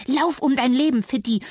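high, loud self-encouragement; a panicked mouse urging herself to flee. Acted. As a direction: spur yourself to run. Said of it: "feuerte sie sich an".

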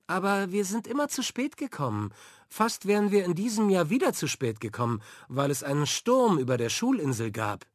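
put-on high, fast girl's voice; a young girl hurrying through her excuse; eager girl Franka. A narrator's reading. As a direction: rush to defend your dad. Franka defends her father.

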